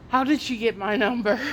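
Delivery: retelling outrage at the boss; mock exasperated demand; indignant. Retold indignant call to boss.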